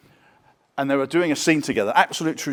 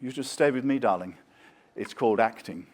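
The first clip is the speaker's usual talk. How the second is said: Laurence Olivier voice. Retold or imitated. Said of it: "Laurence Olivier said".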